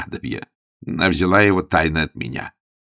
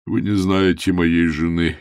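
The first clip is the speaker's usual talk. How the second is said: ordinary delivery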